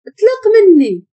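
high, slow acted wail; crying accusation. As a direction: stretch each word into a tearful cry. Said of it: "وبدات كتبكي".

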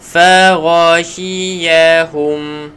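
Faghashiyahum drawn out slowly, gh from the throat; teacher modelling Faghashiyahum slowly; slow Quran recitation. Shown as a demonstration. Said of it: "Okey, baik, seterusnya".

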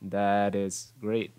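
slowed "That is great", still linked as "tha-dis". Shown as a demonstration. Teacher demonstrates linking slowly, T as D. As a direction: draw out "That is great" with a D for That's T. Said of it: "Gần như biến thành âm D".

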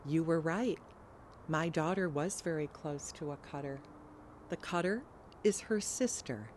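soft, tearful confession; hushed and holding back tears; quietly through tears. Acted. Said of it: "Through his tears, he said quietly".

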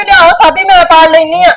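high sneering mimicry of a relative; mocking relatives. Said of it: "ਰਿਸ਼ਤੇਦਾਰਾਂ ਨੇ ਆਖਿਆ".

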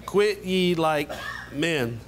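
slow, deliberate quote of the enemy's challenge; a touch of Philistine war cry. Acted. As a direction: give the enemy's rallying words, lightly voiced. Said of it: "the Philistine said".

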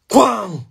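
spoken "bang" noise; imitated crash. Storyteller imitating the giant at the door, sudden bang.

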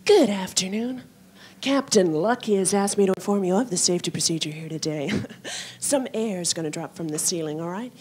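lightly voiced deadpan stewardess announcement; a hint of bored cabin crew reading the rules; blunt stewardess safety talk. Stewardess briefing passengers on safety, lightly deadpan. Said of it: "the way I think they really mean them".

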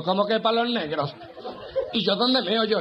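high, slow, disbelieving complaint; can't believe what he's hearing; incredulous outrage. Acted. Desperate tourist asking usher where to pee, high disbelieving protest.

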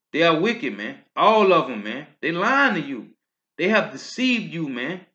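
rising to a loud preaching pitch. Real, not acted. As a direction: denounce them at full volume. Preaching against pastors.

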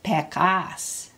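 "pekas" with weight on the final "kas"; short "pe", stronger "kas"; stress on KAS. Shown as a demonstration. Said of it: "you're gonna say kan louder".

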